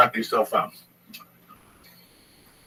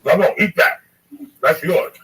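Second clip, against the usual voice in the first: loud, insistent urging; 8 semitones higher, 8 dB louder than usual. Real, not acted. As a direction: push him to eat it, loudly. Pushing edible on friend.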